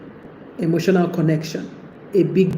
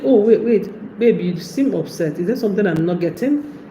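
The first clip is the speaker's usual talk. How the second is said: caring. Shown as a demonstration. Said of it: "You should be saying".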